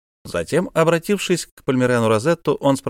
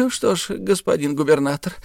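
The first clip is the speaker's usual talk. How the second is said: higher sly opening; lightly voiced miser; 6 semitones higher than usual. A narrator's reading. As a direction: ease into naming the price. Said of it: "ответил Исаак Хакабут".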